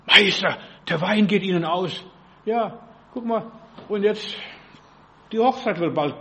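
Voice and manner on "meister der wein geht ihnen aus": mild urgent call, loud on the first word; calling out to the master. Acted. Mary telling Jesus at the Cana wedding the wine is gone, calling out. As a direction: call out "Meister", then ease off. Voices Mary's alarmed call.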